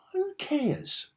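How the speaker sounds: unvoiced, high scornful whisper; whispered who cares; whispered dismissal. Real, not acted. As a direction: breathe it out as a put-down. Dismissing a comic cover.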